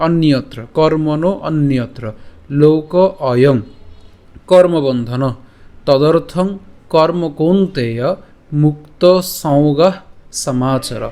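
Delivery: slow, measured Sanskrit verse reading; slow spoken recitation. Shown as a demonstration. Teacher joining the syllables of the verse for students. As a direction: read the verse slowly, joining each word. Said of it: "একসাথে যখন উচ্চারণ করতে যাব".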